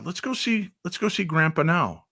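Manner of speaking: excited son pleading with mom to go now; eager urging. Retold or imitated. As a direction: hurry her along with excitement. Urging mom to visit grandpa.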